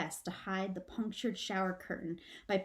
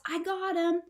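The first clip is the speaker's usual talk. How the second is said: higher triumphant shout; 8 semitones higher, 5 dB louder than usual. Acted. Father shouting triumphantly over the basket. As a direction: proudly claim it.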